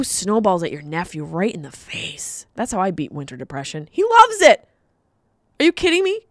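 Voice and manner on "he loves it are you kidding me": mock enthusiastic. Real, not acted. Joking about nephew.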